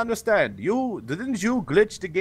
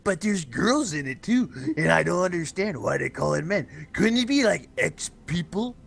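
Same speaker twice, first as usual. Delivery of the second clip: lightly voiced hunched servant, slow and low; a slow, humble assistant answering his master; Igor; 5 semitones lower than usual. Servant Igor slowly answers his master, lightly voiced and low. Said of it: "Igor, what is it called?".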